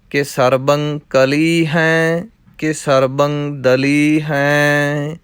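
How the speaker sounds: measured, chanting recitation of verse; rhythmic Gurbani recitation; scripture recitation. Acted. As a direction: recite the verses steadily like a path.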